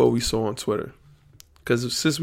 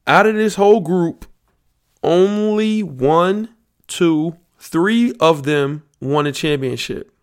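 higher and louder, counting out slowly; dramatic reveal; 5 semitones higher, 4 dB louder, slower than usual. Real, not acted. Host quizzing podcast listeners, slow dramatic count. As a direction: stretch "only one, two, three" for suspense. Building suspense over player quiz.

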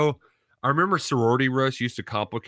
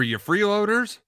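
high squeaky mocking voice, much higher; mock heckling voice; 10 semitones higher, 4 dB louder than usual. Reading a heckling text aloud.

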